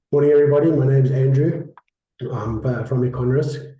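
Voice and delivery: hoarse, croaky from the flu; croaky voice with a cold. Real, not acted. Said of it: "croaky voice this morning".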